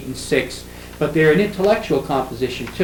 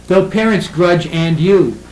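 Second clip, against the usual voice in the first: slow, louder verse reading; poetry recitation; 3 semitones higher, 5 dB louder, slower than usual. Shown as a demonstration. Lecturer shows a line that doesn't flow, reciting. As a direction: declaim the awkward line of verse. Notice how awkward that.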